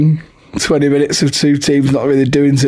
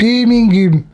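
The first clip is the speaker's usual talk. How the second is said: teasing echo; 9 semitones higher, slower than usual. Real, not acted.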